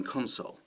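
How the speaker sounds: noun "console" said CON-sole; front-stress the word "console"; stress on first syllable. Shown as a demonstration. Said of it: "the stress is at the beginning".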